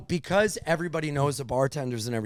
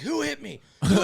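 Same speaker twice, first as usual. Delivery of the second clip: much higher, confused voice; mock groggy drunk asking around; dazed drunk guy; 6 semitones higher, faster than usual. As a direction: play the guy coming to, lost.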